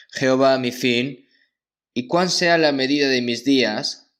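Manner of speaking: ordinary talk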